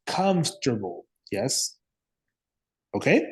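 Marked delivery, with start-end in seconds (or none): 0.1-1.1 "Comfortable" in three syllables, KUMF-ter-bul; reduced pronunciation. Shown as a demonstration. Teacher repeating after the student, "Comfortable" as KUMF-ter-bul. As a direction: hit the first syllable of "Comfortable" and drop the "or". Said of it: "we have to say".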